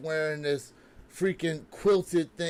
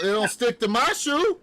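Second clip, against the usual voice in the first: after laughing hard; 8 semitones higher, 5 dB louder than usual. Real, not acted. Laughing after sticker roast.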